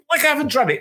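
high, sarcastic jab; sarcastic retort. Retold or imitated. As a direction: scoff at the obvious. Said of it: "I'm like".

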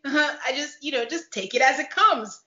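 lightly mimicked halting, nervous answer; imitated flustered stammer. Recapper imitating husband dodging an intimate question, mildly flustered stammer. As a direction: stumble through it with an awkward laugh. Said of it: "he starts stuttering and he goes".

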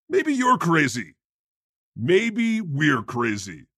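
hammed-up poetry reading of song lyrics; dramatic reading. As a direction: recite the lyrics like a grave stage poem. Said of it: "a dramatic reading of a song".

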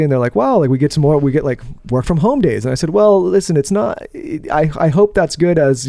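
muffled behind a mask; talking through a face mask. Real, not acted. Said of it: "talk through the mask that you have on right now".

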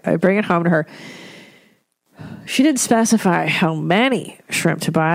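ordinary talk

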